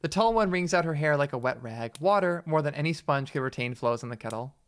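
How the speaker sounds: measured read-aloud narrator; story narration. A narrator's reading. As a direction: narrate the scene evenly. Reads the game's narration aloud.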